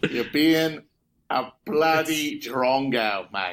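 slow, drawn-out fake Aussie accent; deliberate, badly faked Aussie insult; mock Australian accent. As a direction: stretch out each word in hammed-up Australian. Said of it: "It's a flawless bloody Australian accent".

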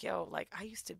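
retold coworker whispering a secret; hushed, breathy confiding whisper. Coworker confides her own past in a whisper. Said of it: "she was like".

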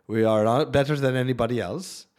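put-on light Swedish accent; a hint of a Swedish accent. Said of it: "That's my Swedish accent".

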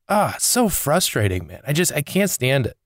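frustrated. Real, not acted. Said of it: "I'm sorry I'm so angry".

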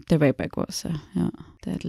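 softly trailing off, barely audible; mumbled. Real, not acted. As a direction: let the words fade into a mumble. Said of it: "What, what was that last thing you said?".

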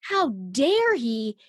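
slow, seething mock indignation; a slowed, simmering how-dare-he voice; retold inner fury. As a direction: drag out each word in silent outrage. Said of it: "And I am furious".

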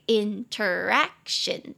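"interaction" slow, weight on "ac"; stress on third syllable. Shown as a demonstration. Teacher modelling "interaction" with stress on "ac". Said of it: "重音节在第三音节".

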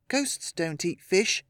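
plain reading voice

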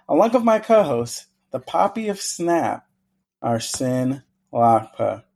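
announcer intro. Acted. Host announces co-host.

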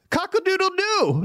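high mock rooster crow on cock-a-doodle-doo; playful high cock-a-doodle-doo. Crowing like a peacocking rooster.

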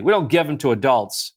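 mock-snotty teller imitation. Bank teller explaining the rule to a parent, snotty. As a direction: put on a condescending little refusal. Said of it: "it's real snotty".

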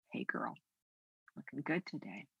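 softly, a quiet friendly compliment; soft encouraging. Pretend. Jesus beside her at the mirror, soft and friendly. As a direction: murmur it like a kind friend.

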